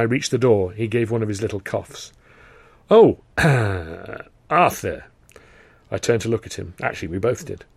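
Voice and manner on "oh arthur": loud sudden call-back. Acted. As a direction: stop him at the door. Carno calls back.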